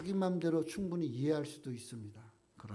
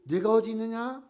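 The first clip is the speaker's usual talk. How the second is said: emphatic; 7 semitones higher, 8 dB louder than usual. Acted. Preacher voicing God's question.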